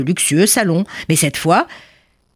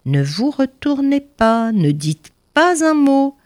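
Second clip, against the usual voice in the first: plain reading voice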